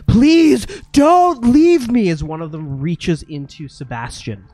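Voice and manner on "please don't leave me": high, loud, slow ghost wail; ghostly plea. Acted. Specter reaching for Sebastian, slow high ghostly wail. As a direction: stretch the plea like a clinging spirit.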